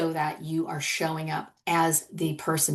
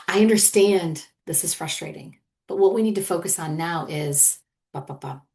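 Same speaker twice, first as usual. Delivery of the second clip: steady and calm. Shown as a demonstration. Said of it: "Shows steadiness".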